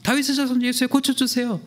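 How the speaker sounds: high pleading cry; crying out again. Retold or imitated. Blind men crying to Jesus again, high plea. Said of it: "막".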